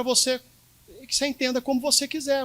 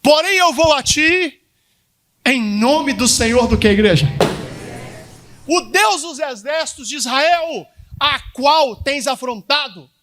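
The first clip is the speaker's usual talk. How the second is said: bold proclamation; 4 semitones higher, 5 dB louder than usual. Acted. Pastor voices David's proclamation.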